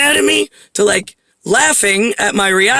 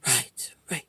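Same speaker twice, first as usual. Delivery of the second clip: very soft, low aside; hushed, lower, barely voiced reply; musing agreement; 9 semitones lower, 16 dB quieter than usual. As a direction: imitate him murmuring agreement to himself. Retelling the man's musing reply.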